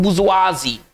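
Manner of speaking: बुजुआजी as bu-zwa-zee, falling at the end; pronunciation demo. Shown as a demonstration. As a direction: model बुजुआजी with a final "zee". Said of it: "इसका देखिए उच्चारण कैसे करें".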